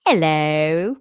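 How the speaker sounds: loud, drawn-out meow with a rising tail; talking-cat meow. Retold or imitated. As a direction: imitate a cat meowing in English. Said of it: "that's how he meows".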